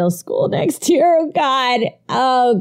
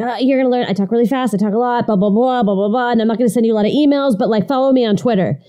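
fast talking; faster than usual. Retold or imitated. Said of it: "he talks really, really fast".

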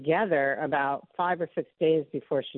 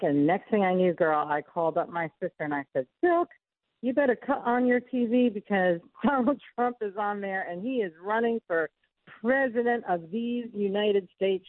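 Diamond's voice, pitched up, THESE United States slowed; imitating Diamond; 4 semitones higher than usual. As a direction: quote her with her North Carolina lilt. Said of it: "I can hear it in her voice".

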